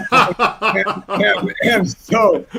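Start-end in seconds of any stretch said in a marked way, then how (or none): none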